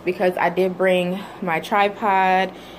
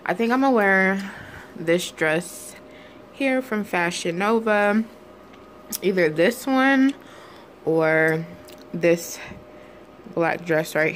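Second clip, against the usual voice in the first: words around a wad of gum; chewing gum; slower than usual. Real, not acted. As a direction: talk through chewing gum. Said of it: "have gum in my mouth".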